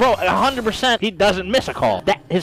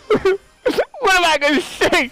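panicked inner voice; 12 semitones higher, slower than usual. Retold or imitated. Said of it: "I'm like".

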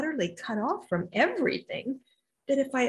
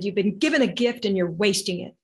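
fiery, louder retold scolding; 6 dB louder than usual. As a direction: scold with emphatic force. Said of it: "she got very fiery".

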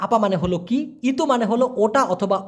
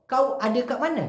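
Malaysian colloquial; 2 semitones higher, much slower than usual. Shown as a demonstration. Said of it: "ঠিক এভাবেই short করে বলে".

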